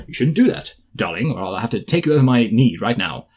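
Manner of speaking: a hint of stern scolding; stern daddy. Imitating a character reprimanding the young woman, mildly stern. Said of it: "he's very kind of stern and sincere".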